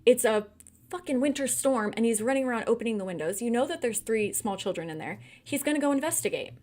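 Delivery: normal talking voice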